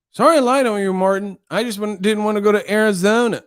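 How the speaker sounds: put-on high little-boy voice. Boy confessing to Martin about Arizona, high child voice. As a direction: apologize in a high childish pitch. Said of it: "that little boy with the ears".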